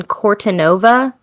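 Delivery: Italian place name in American English; American accent. Real, not acted. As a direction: say Cortanova with plain American vowels. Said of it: "I sounded so American there".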